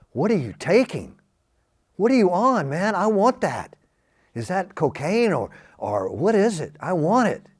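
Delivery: you want whatever he's having; eager craving. Retold or imitated.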